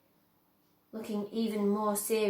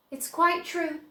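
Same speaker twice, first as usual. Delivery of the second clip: higher, smiling Wonka; 7 semitones higher, 5 dB louder than usual. A narrator's reading. Wonka assuring Grandpa Joe, smiling. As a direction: beam as you say it.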